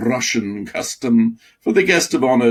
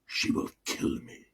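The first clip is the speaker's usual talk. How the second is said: whispered in fear; frightened whisper; 13 dB quieter than usual. Acted. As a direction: hiss it out, scared of the cat. Mouse fearing the cat.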